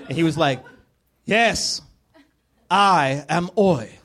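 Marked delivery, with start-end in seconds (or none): 1.2-4.0 slow, high, grand villain voice; drawn-out, hammed-up menace; Bond villain. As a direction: announce yourself like an evil mastermind. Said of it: "Like a Bond villain".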